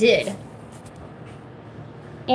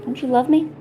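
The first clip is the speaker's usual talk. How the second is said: talking to a dog; 4 semitones higher than usual. Real, not acted. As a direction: plead again with a pet. Pleading with pet, louder.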